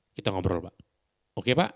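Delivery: calm "kita ngobrol Pak", pause, rising "Oke Pak?"; pauses between phrases. Shown as a demonstration. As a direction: leave a gap before "Oke Pak?" and lift it as a question. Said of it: "ada jeda di antara kata-katanya".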